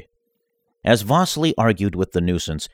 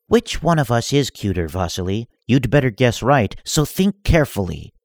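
a hint of menace, slightly higher; lightly voiced villainess; 4 semitones higher than usual. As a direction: demand an answer coyly. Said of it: "said Darth Shivillo".

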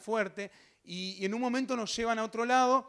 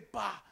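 punchy "pa" for a kicked door; explosive door-kick noise; sudden bang; 5 dB quieter than usual. Retold or imitated. Imitates door being kicked in.

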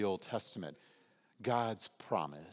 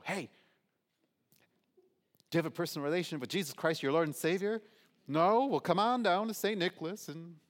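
high, loud, fast and pushy; pushy street preacher; 8 semitones higher, 7 dB louder, faster than usual. Retold or imitated. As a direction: accost a shopper with gusto. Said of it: "grab someone by the shoulder at Costco".

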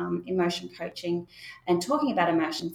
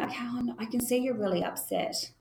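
gentle reassurance; 3 semitones higher, 3 dB quieter than usual. Shown as a demonstration. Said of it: "you're saying".

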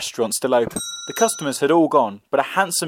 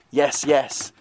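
doll voice. A narrator's reading. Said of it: "said the doll".

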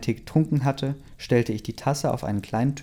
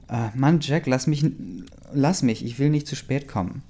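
still angry; 3 semitones higher than usual. Acted. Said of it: "sagte ich immer noch sauer".

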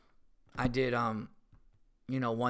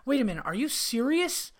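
retold shock; 11 semitones higher than usual. Retold wife shocked by confession.

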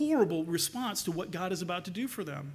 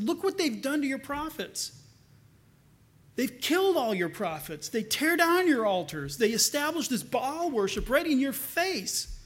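upset complaint; 5 semitones higher than usual. Retold or imitated. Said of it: "he's very upset about it".

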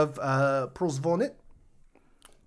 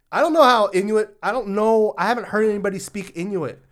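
flustered excuse; 6 semitones higher, 7 dB louder than usual. Real, not acted. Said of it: "I'm sorry, I pronounce things like".

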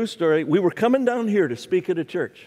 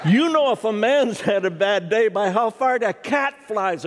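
laughing punchline; 5 semitones higher than usual. Real, not acted.

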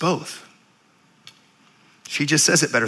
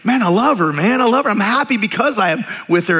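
higher-pitched, insistent declaration of love; retold earnest protest; 5 semitones higher than usual. Young fiancé defending his engagement to a friend, earnestly insistent. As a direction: plead your case, voice lifted.

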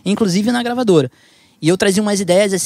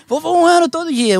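eager boast; 12 semitones higher than usual. Retold or imitated. Mocking a boastful resolution.

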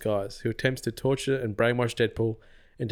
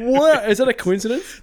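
stuffy nose; 12 semitones higher, 8 dB louder than usual. Real, not acted. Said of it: "Sorry, I'm sick".

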